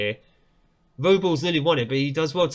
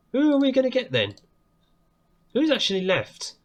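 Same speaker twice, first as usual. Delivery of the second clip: excited question; 10 semitones higher than usual. Real, not acted. Cup draw tension.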